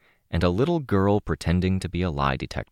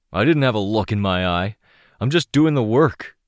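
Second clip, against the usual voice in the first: protesting; 5 semitones higher, 5 dB louder than usual. Acted. Captured mercenary protesting.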